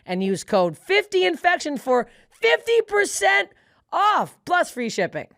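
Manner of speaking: emphatic podcast ad read; sponsor ad read. Acted. Podcast host thanking the meal-kit sponsor, ad read. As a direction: read the sponsor copy with deliberate, punched-up key phrases.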